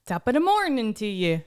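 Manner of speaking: amateur Irish accent; earnest but poor Irish imitation; best Irish attempt. Shown as a demonstration. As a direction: try a careful Irish greeting. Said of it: "you do your best one".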